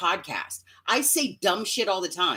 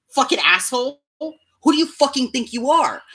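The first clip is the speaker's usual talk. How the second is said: sudden loud, higher mock outburst; mock shout; 6 semitones higher, 6 dB louder than usual. Mocking Neela, suddenly yelling insults at her critic. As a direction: bark it out as the quoted Neela. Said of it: "You do it with me when you say".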